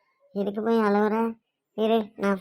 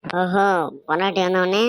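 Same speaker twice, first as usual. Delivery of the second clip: offended retort; 4 dB louder than usual. Acted. Mother offended by son's insult.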